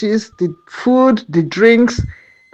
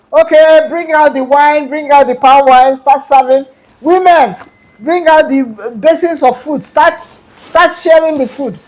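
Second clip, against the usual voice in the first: raised, commanding call to the servants; calling out orders; 3 semitones higher than usual. Acted. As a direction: call the orders out across the arena. King orders the feast served.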